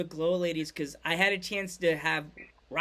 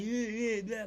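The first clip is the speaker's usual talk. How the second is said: lightly imitated Italian-American tough guy; mock Brooklyn Italian accent mumble; 2 semitones higher, 4 dB quieter than usual. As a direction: do a quick Brooklyn Italian impression. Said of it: "he talks with the Italian accent".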